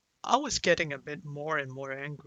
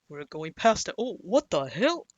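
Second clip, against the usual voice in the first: retold surprise, rising louder and higher; startled exclamation; 3 semitones higher, 6 dB louder than usual. Passenger seeing the taxi pass the building, startled. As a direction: act out spotting the missed stop. Retelling own reaction in taxi.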